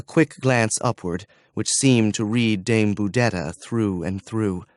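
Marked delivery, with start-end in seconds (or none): none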